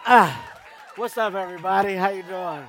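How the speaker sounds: shouted greeting to a cheering crowd; loud greeting. Real, not acted. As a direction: call out over the cheering.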